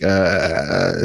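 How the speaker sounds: usual speaking voice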